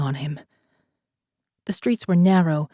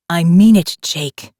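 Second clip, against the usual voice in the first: sharp warning; 7 dB louder than usual. A narrator's reading. Morgan swings gun at Jake.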